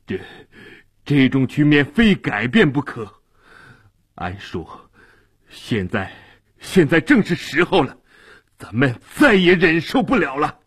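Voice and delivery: stammering with anger. Acted. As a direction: stumble over the words, shaking. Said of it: "结结巴巴地说".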